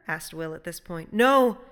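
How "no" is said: "No" loud and high; extraordinary emphasis. A narrator's reading. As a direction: hit "No" as an absolute refusal. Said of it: "said the voice with extraordinary emphasis".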